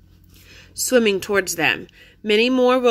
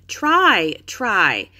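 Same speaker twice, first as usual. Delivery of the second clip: urging. A narrator's reading. Urging sister out of mud.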